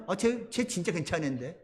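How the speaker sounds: king quietly vouching for David; soft mumbling defense. Retold or imitated. 블레셋 왕이 다윗 옹호. (작게 중얼거리는 왕의 옹호)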